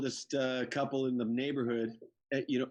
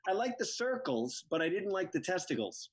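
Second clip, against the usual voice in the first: lightly voiced mother, higher pitch; a hint of an innocent older mom; imitating mother; 5 semitones higher than usual. Mother answers son about the calamari, imitating mother. Acting out his mother's reply.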